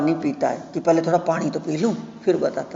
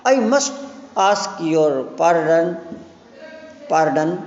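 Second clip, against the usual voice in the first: flustered apology; much slower than usual. Acted.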